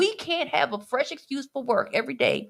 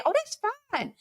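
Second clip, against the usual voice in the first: lightly voiced breezy boss, pitched up; breezy employer; 3 semitones higher, faster than usual. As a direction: play a boss casually calling the bluff. Acting out employer calling bluff.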